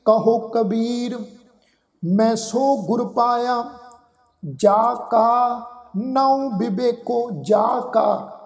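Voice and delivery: slow, measured verse reading with held vowels; scripture recitation. Shown as a demonstration. Teacher reciting a Gurbani line to the congregation, slow recitation. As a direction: recite it slowly, phrase by phrase. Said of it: "ਅਸੀਂ ਸ਼ਬਦ ਪੜ੍ਹਦੇ ਹਾਂ ਜੀ".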